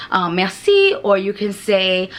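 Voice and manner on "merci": "Merci" sung out high and bright with a rising French lilt; sing-songy merci. Shown as a demonstration. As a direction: chirp "Merci" warmly on the way out. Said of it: "you always say".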